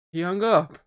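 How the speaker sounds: high, loud imitated mother saying it; mock mum. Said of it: "It's like".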